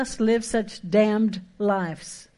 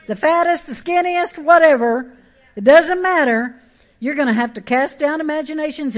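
louder, higher, hammering commands; full-force preaching; 5 semitones higher, 6 dB louder than usual. Acted. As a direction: preach it hard from the pulpit.

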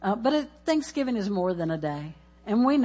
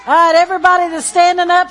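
calling out; 10 semitones higher, 12 dB louder, much faster than usual. Real, not acted. Calling out to congregation.

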